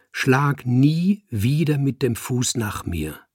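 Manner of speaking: langsam, nachdrücklich warnen; ernste Warnung. Acted. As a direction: jedes Wort betont setzen. Kater warnt den Dichter. (der Kater warnt den Dichter, langsam und ernst)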